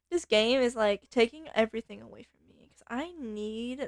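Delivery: put-on a light Valley Girl whine, slowed on like; lightly voiced spoiled Valley Girl. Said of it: "Valley Girl is Valley Girl".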